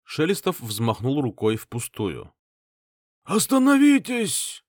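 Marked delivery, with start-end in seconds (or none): 3.2-4.6 put-on high, loud, drawn-out old man's cry; old man's shout. A narrator's reading. Old patriarch shouting to stop the bloodshed. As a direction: cry out to halt the fight. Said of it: "крикнул старик".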